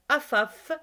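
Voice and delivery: Afaf with two clear a vowels; right way. Shown as a demonstration. Teacher correcting pupils, Afaf said clearly. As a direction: say Afaf as a-faf, both a's open. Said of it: "C'est pas Afaf".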